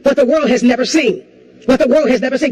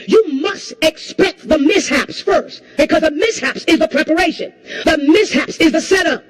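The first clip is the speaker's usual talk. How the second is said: rising preaching; 3 semitones higher than usual. Acted. Preaching builds to a shout.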